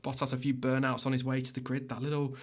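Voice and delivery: hushed snooker commentator voice; quiet, measured snooker commentary. Acted. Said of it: "I've started talking like I'm a snooker commentator now".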